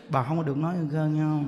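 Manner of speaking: low, soft, grave monk scolding gently; stern monk's warning. Retold or imitated. A monk quietly warning the grieving woman, low and grave. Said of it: "Bà nói".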